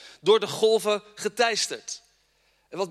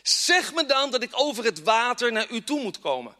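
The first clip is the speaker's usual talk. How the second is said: pleading Peter; 3 semitones higher than usual. Acted.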